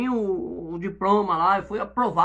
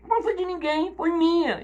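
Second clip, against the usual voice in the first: emphatic preaching; 9 semitones higher than usual. Real, not acted. Preaching at full force.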